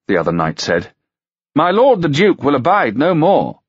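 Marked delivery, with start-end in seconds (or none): 1.5-3.6 higher, louder warning; knight's voice. Acted. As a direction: warn him with a grin.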